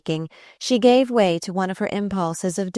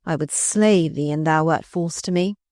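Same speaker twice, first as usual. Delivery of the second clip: ordinary delivery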